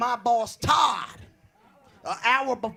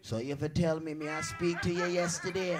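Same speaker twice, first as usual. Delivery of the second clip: indignant Jamaican tirade, building to a shout; Jamaican accent. Acted. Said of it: "Don't get a Jamaican".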